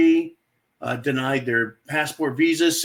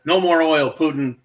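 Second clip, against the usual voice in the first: louder, a hammed-up threat; mock stern warning; 5 dB louder than usual. Mocking the West's warning to Putin, louder. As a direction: wag a finger at Putin, a touch louder.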